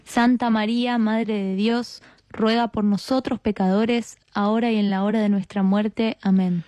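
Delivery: measured, level-toned prayer response; rosary response. Real, not acted. Answering the leader's Hail Mary, recited prayer. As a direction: answer in a steady recited cadence, settling on Amen.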